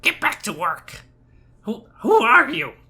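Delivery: very high, very loud, shrill goblin squawk. Running a tabletop game, voice a goblin turning back to the kobolds in a goblin voice. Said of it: "the goblin kind of uh, turns back to the kobolds, goes and goes".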